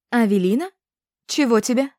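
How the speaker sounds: grumpy, loud, unwelcoming; suspicious neighbour at the door; sullen question. A narrator's reading. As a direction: greet her with a sour scowl. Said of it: "хмуро спросила Авеса".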